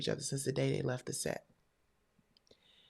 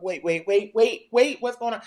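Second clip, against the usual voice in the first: rising, louder, higher panicked pleas; panicked wait; 6 semitones higher, 7 dB louder than usual. Retold or imitated. Wife retelling how she begged a gunman to stop. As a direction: plead in rising alarm. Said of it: "and I was like".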